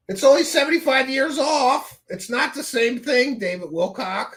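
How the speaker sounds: high sneering mimicry; mock him in a high whiny voice; mocking impression. Repeats mocking Wilcock.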